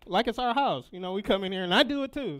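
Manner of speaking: laughing. Real, not acted. Laughing confession to the congregation.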